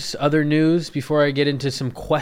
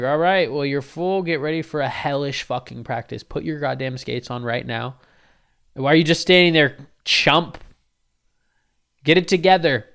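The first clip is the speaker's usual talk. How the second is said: loud, higher barking orders; yelling coach dad; 3 semitones higher, 8 dB louder than usual. Retold or imitated. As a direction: drill the kid like a furious coach. Dad yells at son.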